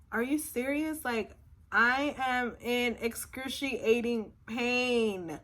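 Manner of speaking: incredulous question, then slow emphatic complaint; retold exasperation. Patient told the doctor is away, exasperated. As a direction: start high in disbelief, then stretch the complaint.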